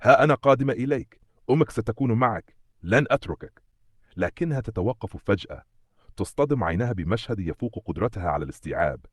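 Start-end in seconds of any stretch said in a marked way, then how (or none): 0.0-3.6 high, loud start, easing gradually; urgent reassurance. A narrator's reading. Mother hurrying to her child, urgent. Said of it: "تقول وهي تسرع نحوه".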